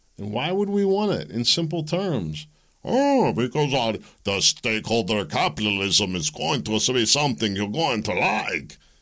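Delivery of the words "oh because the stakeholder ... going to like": put-on French-sounding accent. Explaining what it means in simple terms, in a put-on accent that sounded french. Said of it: "I think that sounded more French".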